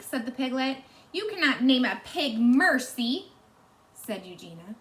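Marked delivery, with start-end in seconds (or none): 1.1-3.3 indignant objection. Acted. Eugenia objecting.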